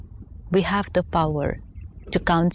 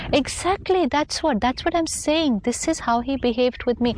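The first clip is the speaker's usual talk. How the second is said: higher, eager mock agreement; a gossiping friend on the phone, eagerly agreeing; 5 semitones higher than usual. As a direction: play the friend who jumps right in to agree.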